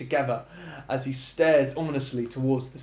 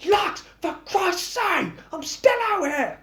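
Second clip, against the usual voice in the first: wailing; 3 dB louder than usual. A narrator's reading. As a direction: wail through the door. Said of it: "Kevin wails out".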